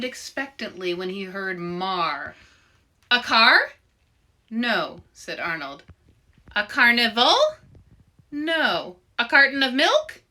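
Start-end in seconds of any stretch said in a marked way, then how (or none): 3.1-10.2 eager guesses. Acted.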